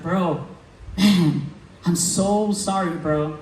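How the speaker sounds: a hint of a guilty friend apologizing; sheepish apology. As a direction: mumble it like you let him down. Cop apologizing after no-show.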